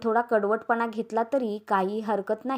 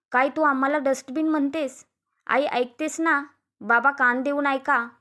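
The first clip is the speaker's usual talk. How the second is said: affronted complaint, pitch lifted; आगीत तेल ओतणे; 4 semitones higher than usual. Acted. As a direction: stir the parents up against her. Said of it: "उर्मी आगीत तेल ओतत होती". (चिथावणीखोर तक्रारीचा सूर)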